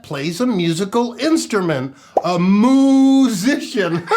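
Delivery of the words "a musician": laughing punchline. Acted. Host laughs at his own cow joke, laughing. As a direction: deliver the punchline slowly, already laughing.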